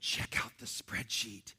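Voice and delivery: lightly voiced operator at bedtime; mock nerdy spouse. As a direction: play a spreadsheet lover showing off in bed. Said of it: "And they're like".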